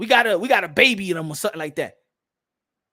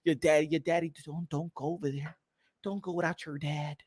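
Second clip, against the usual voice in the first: soft, lower mock plea; mock pleading; 7 semitones lower, 10 dB quieter than usual. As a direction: whimper the plea mockingly. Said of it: "people was talking about your daddy".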